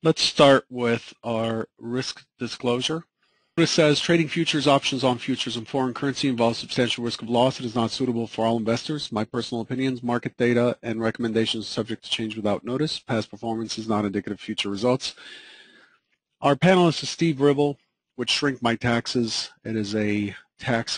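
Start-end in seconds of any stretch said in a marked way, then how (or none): 4.0-15.2 brisk legal disclaimer reading; fast disclaimer read. Acted. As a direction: rattle off the fine print, fast. Host reads risk disclosure.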